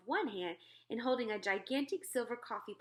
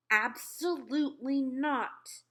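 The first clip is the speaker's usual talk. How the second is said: louder, slow firm refusal; firmly; 5 semitones higher, 6 dB louder, much slower than usual. Acted. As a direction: shut him down firmly. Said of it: "Sophie told him firmly".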